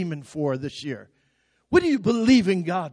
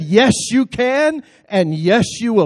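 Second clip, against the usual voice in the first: stressed, slower, punching out you and yes; louder repeat; 3 semitones higher, 4 dB louder than usual. Shown as a demonstration. Preacher repeating the line louder for the congregation. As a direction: say it again so it lands, louder. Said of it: "I said".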